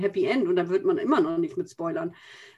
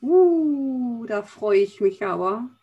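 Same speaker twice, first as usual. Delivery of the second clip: ironisch; 4 dB louder, much slower than usual. Real, not acted. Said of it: "War das jetzt ironisch?".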